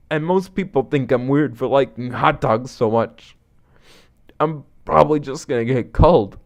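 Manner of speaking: lightly voiced self-pitying buddy; dejected hot dog lover. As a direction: confess your failings in halting, downhearted phrases.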